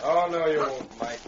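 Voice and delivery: loud menacing voice; loud interruption. Acted. Villain bursts in, stopping the deal.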